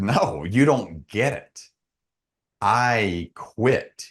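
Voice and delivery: slow, spaced-out "I quit"; retold insistent refusal. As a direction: insist on "I quit" as if not understood. Retells insisting to coach he quits.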